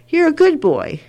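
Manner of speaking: put-on high, lilting reassurance to a child; retold tender praise for a grandchild; reassuring grandmother. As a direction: lift it high to comfort a little boy. Grandmother reassuring her crying grandson.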